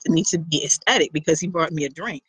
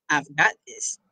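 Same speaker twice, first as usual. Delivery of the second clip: lower, close-in voice of a confident man; deep male voice; 4 semitones lower, 3 dB quieter than usual. Acted. Guitar player surprising her at the bar, low and close. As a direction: say it low, right by her ear. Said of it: "a deep voice said close to my ear".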